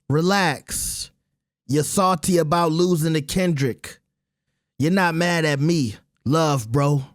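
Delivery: light attempt at another man's accent; Ebro accent. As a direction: lightly imitate a radio host's accent. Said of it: "tried to do a little Ebro accent".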